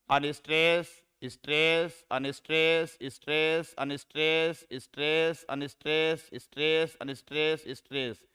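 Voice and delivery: अनस्ट्रेस, स्ट्रेस recited in even, regular alternation; alternating metre recital. Shown as a demonstration. Teacher reciting the iambic pattern, अनस्ट्रेस, स्ट्रेस in steady alternation. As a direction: count off अनस्ट्रेस then स्ट्रेस as a steady beat, falling on the last. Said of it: "स्ट्रेस के pattern से".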